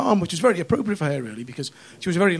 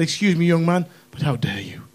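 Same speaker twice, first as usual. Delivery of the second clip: posh indignation. Retold or imitated. Comic tells his mate off for asking, mock-posh and indignant. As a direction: put on a posh, offended voice. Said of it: "I got posh when I'm angry".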